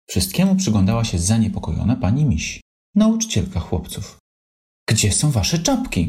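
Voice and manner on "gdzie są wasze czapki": mild mock shout. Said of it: "krzyknęła".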